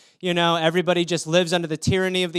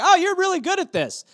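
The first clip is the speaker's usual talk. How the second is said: put-on high-pitched, louder gushing kid voice; 11 semitones higher, 4 dB louder than usual. Kid gushing to the doctor, high and excited. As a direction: squeal thanks like an amazed kid. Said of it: "He's like".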